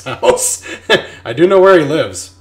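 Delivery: loud, pointed threat; loud menacing. Real, not acted. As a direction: let him know you mean it. Veiled threat at contractor.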